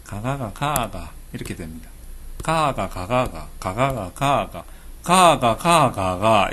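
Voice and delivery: 가가 가가가 slow, in a chanting dialect rhythm; 경상도 사투리 가가 연속; Gyeongsang 가가 string. Shown as a demonstration. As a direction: rattle off the 가가 chain in dialect. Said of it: "이렇게 되는 거죠".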